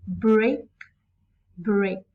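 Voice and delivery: BREAK, pause, BREAK, each given full weight; two separate beats on "break"; equal stress on both. Shown as a demonstration. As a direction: land firmly on each "break", pausing between. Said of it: "Both syllables are stressed".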